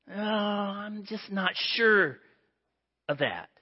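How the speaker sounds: slow, doubtful "Oh, I'm just not sure"; hesitant Moses. Acted. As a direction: drag it out, unwilling to commit. Moses hesitates before God.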